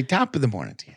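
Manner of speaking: light mock-Irish prompt; feed the line in a hint of Irish accent; attempted Irish accent. Host coaching reluctant co-host, lightly put-on Irish accent. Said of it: "in your best Irish accent".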